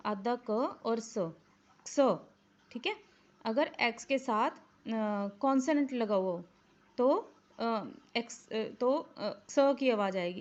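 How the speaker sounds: quiet teaching. Real, not acted. Quiet lesson segment.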